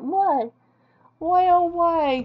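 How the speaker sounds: drawn-out why oh why, hammed-up; milk the regret, slowly; slow mock wail. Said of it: "I went".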